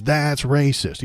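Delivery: drawn-out mock yell, that's racist; screamed quote. Senator heckling the president, slow mock yell. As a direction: shout it slow at the top of the lungs. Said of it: "he screams".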